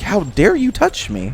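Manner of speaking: high-pitched, slow mock affront; imitated shock. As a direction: play someone shocked and offended. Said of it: "he was just in shock".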